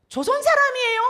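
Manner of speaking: put-on high, loud call in a northern accent; 북한 사투리로 외치는 질문; North Korean accent. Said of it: "사투리 비슷한 이북 말".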